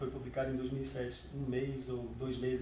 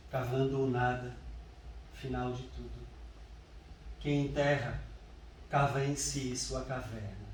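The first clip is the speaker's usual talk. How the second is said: deliberate recital with long pauses between phrases; solemn, measured verse reading; poetry reading. Acted. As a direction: recite the elegy line by line, unhurried. Reads poem on mother's death.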